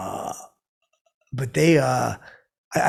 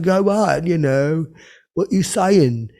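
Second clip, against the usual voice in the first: higher, louder needling; pushy challenge; 6 semitones higher, 8 dB louder, much slower than usual. Retold or imitated. Mick needling Jimmy about the album, loud and higher. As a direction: egg him on brashly.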